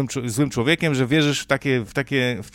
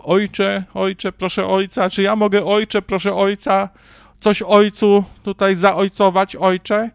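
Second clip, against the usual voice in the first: "Ojcze" repeated in a fawning, slightly higher mock-pleading voice; mock fawning believer; 4 semitones higher than usual. Mocking believers who keep addressing the priest, mock fawning pleading. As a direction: lightly parody a grovelling churchgoer. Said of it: "a tu".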